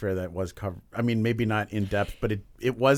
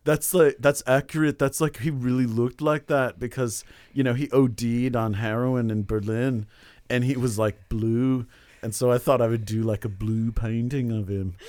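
a light, slow mock Liverpudlian accent, half-hearted; hammed-up, playful imitation of a rock star drawling in a Liverpool accent; shitty rock-star impression of another rock star. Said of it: "this is one singer doing another singer".

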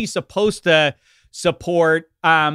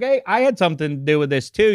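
mock quote; faster than usual. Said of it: "Joe Flacco's like".

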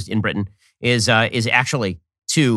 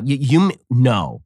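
normal talking voice

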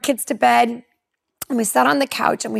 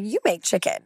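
a touch of dry, softer sarcasm thrown back; lightly mock the request with California-girl snark; sarcastic retort; 3 semitones lower, 4 dB quieter than usual. Retelling how she answered God, mildly sarcastic and a bit softer. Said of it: "in the sarcasm of the California girl in me".

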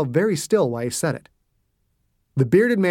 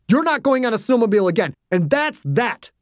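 stern parental ban; 7 semitones higher than usual. A narrator's reading. Father forbidding his daughter the snowmobile, stern. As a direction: lay down the law, closing the matter.

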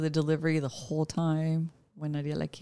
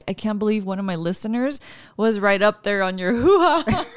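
tag laughing quote; 3 semitones higher, 4 dB louder than usual. Retold or imitated. Teasing retold remark amid laughter.

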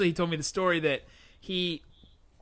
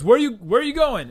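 higher, louder call after someone; 8 semitones higher, 9 dB louder than usual. Retold or imitated. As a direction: shout the question across the lot. Man calls after departing narrator.

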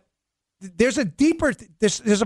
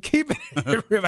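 quoting a TV catchphrase; 3 semitones higher, much slower than usual. Retold or imitated. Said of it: "Remember that Chris Rock segment?".

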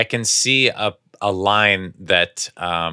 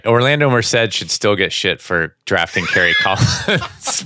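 laughing tease. Real, not acted. Teasing former teammate, laughing.

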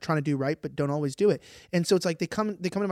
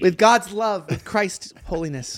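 mock preacher; 2 semitones higher, 7 dB louder, slower than usual. Co-host riffing on being filled with God's love, mock preacher. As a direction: playfully preach it like a revival blessing.

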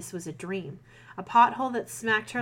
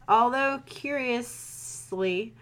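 slow reading; 3 semitones higher, much slower than usual. Shown as a demonstration. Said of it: "that's not how that word works".

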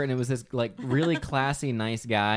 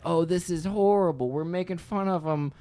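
dismayed; 5 semitones higher than usual. Retold or imitated. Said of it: "I was like".

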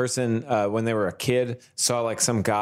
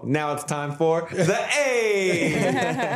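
high, slow, put-on character voice; Molinara voice; 8 semitones higher, much slower than usual. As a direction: announce it like a showy character. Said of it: "to be a character named Molinara".

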